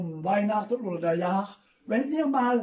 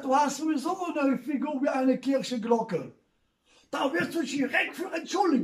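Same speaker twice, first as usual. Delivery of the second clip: mock yell; 4 semitones higher than usual. Insulting mother-in-law, retold.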